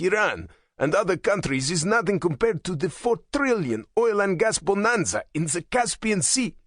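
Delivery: rising, menacing anger; ominous anger. A narrator's reading. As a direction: build the threat as you go. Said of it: "Pavlinsky's angry voice suggested ominous intentions".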